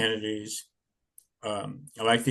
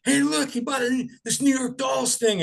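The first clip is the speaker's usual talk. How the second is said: mocking cashier; 13 semitones higher than usual. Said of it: "and the guy goes".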